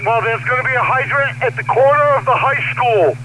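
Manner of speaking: urgent firefighter radio. Real, not acted. Fire commander shouting orders on radio.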